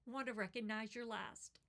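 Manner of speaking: real emotion pushing through a poem, long pauses; fighting back tears as you read; emotional reading. Real, not acted. Parent moved by the poem, reading on through real emotion. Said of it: "I don't know why I'm getting emotional".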